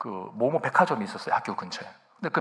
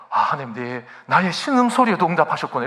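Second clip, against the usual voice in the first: thrilled prayer; 3 semitones higher, 6 dB louder than usual. Retold or imitated. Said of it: "이러면서".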